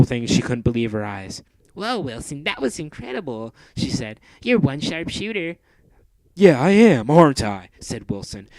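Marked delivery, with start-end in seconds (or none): 1.7-5.6 put-on higher amazed girl voice; Mandy's voice. Mandy praising Wilson's shooting, high and amazed. 6.3-7.7 loud, high, cocky voice; Wilson boasting. Acted. Wilson agreeing he's a sharp shooter, loud and cocky.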